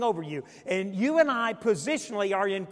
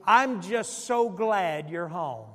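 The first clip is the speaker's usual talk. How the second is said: tender quote; 2 semitones lower, slower than usual. Retold or imitated. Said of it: "would say to me".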